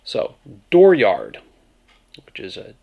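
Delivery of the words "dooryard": Maine "dooryard" whispered slowly, R's moved after the vowels; Maine accent. Shown as a demonstration. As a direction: breathe a slow Maine "dooryard". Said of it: "Then add R's in places directly after vowels".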